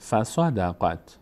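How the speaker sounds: «فصدقت» slowly joined as fa-sa-da-qat; joined slow reading. Shown as a demonstration. Teacher reassembling the word for learners, slowly joined. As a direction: link the syllables of فصدقت into one word. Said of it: "قاف میچسبه به".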